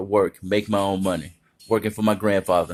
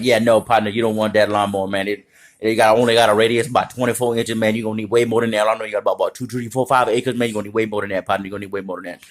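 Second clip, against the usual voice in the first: lawnmower expert; faster than usual. Retold or imitated. Grandfather advising other shoppers, lightly voiced expert. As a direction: lecture a buyer like a store expert. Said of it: "My grandfather doesn't talk like that".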